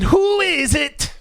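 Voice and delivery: high, slow mock pop-singer yelp; hammed-up pop singer; playful high singer-style cry; impression of a pop singer. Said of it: "like a pop singer".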